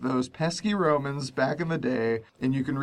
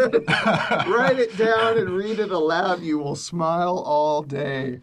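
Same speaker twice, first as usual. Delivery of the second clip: laughing; 2 semitones higher, 4 dB louder, slower than usual. Real, not acted. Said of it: "You can hear the smile on my face".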